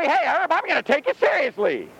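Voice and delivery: high, mock-serious address; mock-earnest. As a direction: send up a feeble attempt at sternness. Mock version of stern Jesus.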